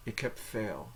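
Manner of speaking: heb said softly as "hep". Shown as a demonstration. Teacher repeats the phrase after translating, B like P. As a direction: close heb on a P sound. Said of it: "it's pronounced like a P".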